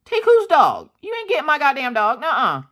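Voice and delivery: mother defending her dog from police, shouting high; furious outburst. Retold or imitated. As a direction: refuse outright, voice flying up. Cops come to take her dog.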